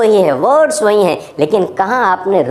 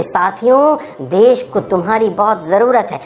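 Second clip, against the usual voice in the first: mildly limp rallying call; a half-hearted leader's appeal; slack, listless speech. Acted. Netaji addressing a crowd without any excitement, slack. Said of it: "वहाँ ढीला ढाला बोल रहे होते".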